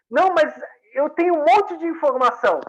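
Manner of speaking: acted pleading protest; eager protest. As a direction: push back, bursting to share what you know.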